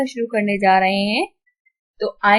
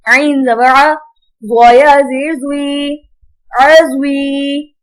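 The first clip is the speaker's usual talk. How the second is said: slow, measured recitation with long-held vowels; Quran spelling drill; 2 semitones higher, much slower than usual. Shown as a demonstration. Teacher spells out Arabic words for pupils, drawn-out recitation. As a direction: chant each syllable out for pupils.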